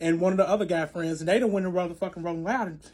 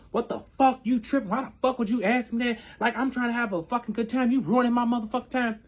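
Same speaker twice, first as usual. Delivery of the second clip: indignant retold rant, pitch raised; acted angry outburst; 5 semitones higher than usual. Boyfriend blows up at her for asking, angry outburst. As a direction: imitate him going off, higher-pitched. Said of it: "He bloops out".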